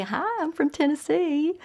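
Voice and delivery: high-pitched, rising hello; high imitation of a newcomer's greeting; chirpy self-introduction. Acting out her own introduction.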